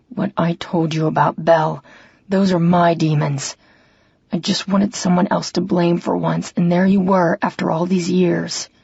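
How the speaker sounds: a hint of a brother admitting his demons; remorseful River. River voiced confessing.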